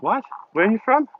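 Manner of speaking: imitated surprise, pitch leaping up; high, rising double-take question; puzzled questioning. British listeners reacting to her accent, imitated puzzlement.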